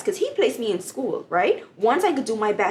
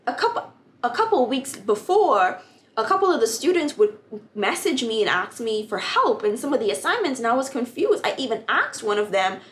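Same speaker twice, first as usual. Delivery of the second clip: excited retelling; 4 semitones higher than usual. Retold or imitated.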